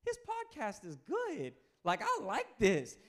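high, slow, hushed mock voice of Nicodemus; secret admirer. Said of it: "leaning back going".

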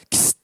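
quick sharp hiss, kss; one short hiss to call. Retold or imitated. Driver hissing once at the girl, sharp kss. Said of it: "He's like".

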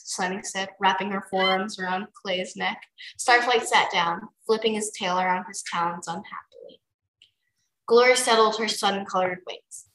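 easy read-aloud narrator; story narration. A narrator's reading. Reader telling friend a dragon story, narrating. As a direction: narrate it like a bedtime chapter.

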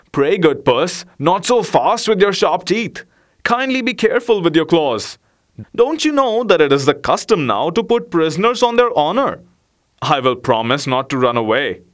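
a small rat begging politely for mercy; pleading rat. Acted. Rat to the cat, a lightly voiced plea.

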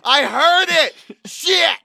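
loud, high cry of frustration; exasperated shout. Real, not acted. Performer hearing his own accent slip, exasperated shout. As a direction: yell it, annoyed at yourself.

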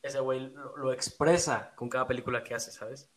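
choppy, breaking-up call audio; call dropping out. Real, not acted. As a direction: voice cutting in and out. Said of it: "Te estás cortando".

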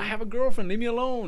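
high, loud push-back; mean it, get her off you; firm refusal. Retold or imitated. Driver fending off passenger.

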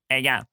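"How you going" collapsed into 'egga'; abbreviated to one word. Shown as a demonstration. Showing how Aussies abbreviate, one-word "How you going". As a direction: run "How you going" together as a single short word. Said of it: "abbreviate whole sentences into one word".

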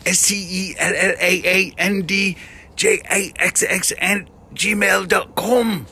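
a playful fake British accent. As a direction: sign off the email address in a hammed-up British accent. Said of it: "we end on a British accent".

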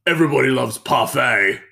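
high, loud hammed-up exclamation; put-on high voice bursting into laughter; imitated gleeful lady. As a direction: crow it like an over-delighted lady. Voices laughing lady's odd exclamation.

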